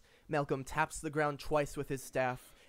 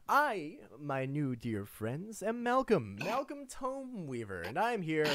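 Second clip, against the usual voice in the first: grand announcement. Acted. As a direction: announce yourself grandly to new friends. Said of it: "announces himself".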